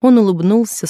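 ordinary delivery, nothing marked

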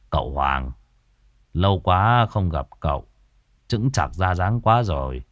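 a hint of an affable elder; older troupe actor. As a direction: greet a long-missed younger friend, low-pitched.

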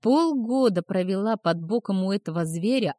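usual speaking voice

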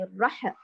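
الرح with a jolted echoing ح; wrong bounced ح. Shown as a demonstration. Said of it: "لا تقلقليه".

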